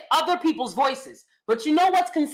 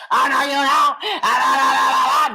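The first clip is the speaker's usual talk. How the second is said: mock black voice; 5 dB louder than usual. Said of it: "people who was doing black voices".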